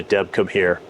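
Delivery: low-key, unhappy summons to a wife. Retold or imitated. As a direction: call the wife over without any cheer, retold. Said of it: "'cause I didn't wanna say".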